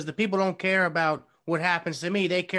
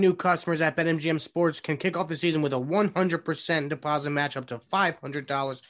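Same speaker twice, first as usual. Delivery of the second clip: upbeat sponsor read, a touch pushed; ad read with enthusiasm. Acted. Reading the sponsor spot for the show, with forced enthusiasm. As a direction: sell the sponsor to the listeners. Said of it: "say it with enthusiasm".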